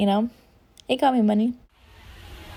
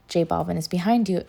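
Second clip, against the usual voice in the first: calm monotone; 5 dB quieter than usual. Retold or imitated. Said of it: "in the most calm, monotone voice".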